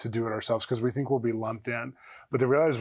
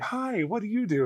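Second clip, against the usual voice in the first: chatty seatmate; 9 semitones higher than usual. Retold or imitated. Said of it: "the person next to me is like".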